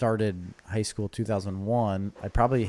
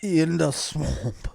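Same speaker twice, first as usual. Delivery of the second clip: put-on slow, high, drawn-out Louisiana accent; mock Louisiana accent; 7 semitones higher, 6 dB louder, much slower than usual. Joking about Swamp Thing to a friend, hammed-up Louisiana accent.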